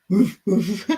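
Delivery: put-on amateur old-dog bark; old big dog. Shown as a demonstration. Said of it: "That's a very old, big dog".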